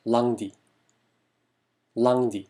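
lundi pronounced "lang-dee", vowel near "ah"; French pronunciation demo. Shown as a demonstration. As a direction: model lundi firmly, first vowel open like "ah". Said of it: "약간 아 발음에 가까운데요".

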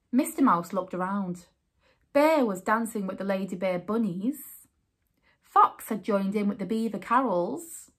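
story narration. A narrator's reading. Reading picture book aloud.

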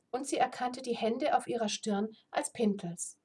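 reading a fantasy novel aloud; steady storyteller read; story narration. A narrator's reading. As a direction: tell the tale evenly to listeners.

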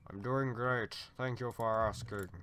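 lightly voiced deity; Zeus. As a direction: answer politely as a lofty god. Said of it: "That was my Zeus voice".

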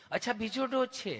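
mock-affectionate nurse voice; lovingly asking nurse. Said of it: "તમે કેટલું પ્રેમથી પૂછો છો".

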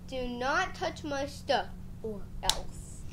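slow, quiet, menacing warning; slow low threat. Acted. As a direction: draw out each word as a threat. Threat to little brother.

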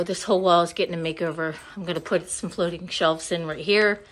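winded from running around; out of breath. Real, not acted. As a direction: talk while catching your breath. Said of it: "I'm out of breath".

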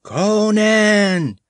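high piercing shriek of a name. A narrator's reading. Valerius shrieking for Conan across the square. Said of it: "shrieked Valerius".

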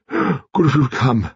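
a hint of an imperious old lady; sardonic old lady. A narrator's reading. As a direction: grandmother quizzing her grandson and the nurse. Voicing Lady Lacklander.

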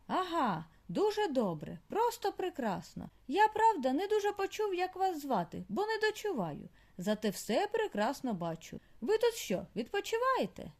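put-on a deaf old mole too pleased to listen; chatty deaf old mole. A narrator's reading.

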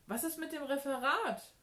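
high, loud anxious question; calling after. A narrator's reading. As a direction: shout it after someone leaving. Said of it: "rief Benny ihr hinterher". (laut hinterhergerufen)

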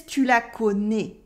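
southern French "connais" ending on a closed ay; southern French accent. Shown as a demonstration. French teacher copying the dream character, southern French closed "connais". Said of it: "speaks with a southern accent".

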